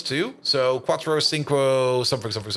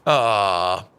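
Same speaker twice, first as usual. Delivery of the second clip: usual speaking voice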